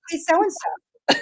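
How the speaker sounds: slow, drawn-out echo of "Hey, so-and-so"; ghostly mimic call. A mimic spirit calling a spirit's name, slowly drawn out. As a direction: stretch the greeting slowly like an unseen voice copying. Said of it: "And you'll hear".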